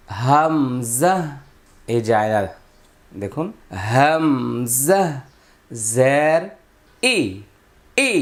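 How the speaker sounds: হামজা drawn out long and slow, then জের and a clear ই; slow letter demo. Shown as a demonstration. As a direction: spell out হামজা জের ই slowly, like a teacher. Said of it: "এইভাবে".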